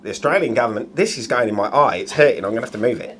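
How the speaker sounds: put-on Australian accent slipping towards cockney; wobbly Australian accent. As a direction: attempt Australian, land near cockney. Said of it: "Now you just sound like a cockney".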